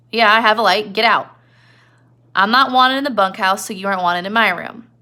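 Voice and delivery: mock-gruff get out; Crooks. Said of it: "And Crooks is like".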